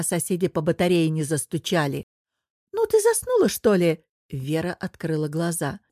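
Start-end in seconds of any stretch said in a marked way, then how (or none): 2.7-4.0 impatient nudge. Acted. Anya jolts dozing Vera.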